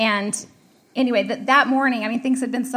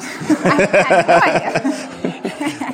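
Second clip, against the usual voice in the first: laughing; 5 semitones lower, 5 dB louder, much slower than usual. Real, not acted. Laughing at her own naivety.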